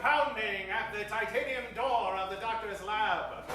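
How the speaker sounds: loud, dramatic telling of the pounding; loud narration. A narrator's reading. Narrator tells of pounding at the lab door, loud and dramatic. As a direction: boom out the heavy pounding.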